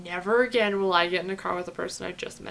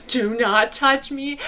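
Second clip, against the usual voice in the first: firm warning; 3 semitones higher, 4 dB louder, slower than usual. Retold or imitated. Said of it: "my instant reaction".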